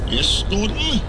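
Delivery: high, rising, measured assent; mock grave. A narrator's reading. Edward humouring Gordon's excuse, gravely. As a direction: agree with solemn politeness. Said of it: "said Edward gravely".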